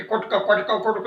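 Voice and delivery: quick, even, repeated pecks; woodpecker pecking imitation. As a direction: imitate a woodpecker tapping rapidly on wood. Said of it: "ಅಂತ ಕೂಗ್ ತೂತ ಮಾಡಿಬಿಡುತ್ತೆ". (ಮರಕುಟುಕ ಕುಟ್ಟುವ ಶಬ್ದದ ಅನುಕರಣೆ)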